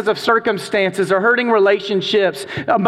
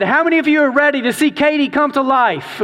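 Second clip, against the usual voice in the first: raised, upbeat call to the class; rallying question; 6 semitones higher than usual. Retold or imitated. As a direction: pump up the room before the reveal.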